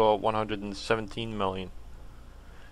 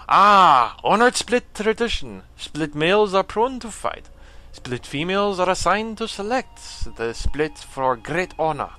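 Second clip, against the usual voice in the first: forceful, raised alien-warrior voice; painful character voice; 3 semitones higher, 4 dB louder than usual. Acted. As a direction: put on a strained, loud warrior voice. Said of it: "trying to give him a voice".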